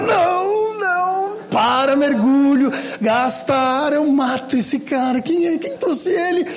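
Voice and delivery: grito agudo de pânico imitado; desespero exagerado. Retold or imitated. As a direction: alarme fingido, voz alta e aguda. Reação desesperada ao sinal errado. (pânico brincalhão contando a história)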